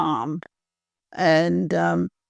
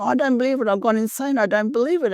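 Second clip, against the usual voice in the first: higher-pitched, mock hysterical outburst without real screaming; retold hysterical panic; 5 semitones higher, faster than usual. Woman recounting running around the table after the phone call, mock hysterical. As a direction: act out hysterics at a contained volume. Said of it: "I started screaming hysterically".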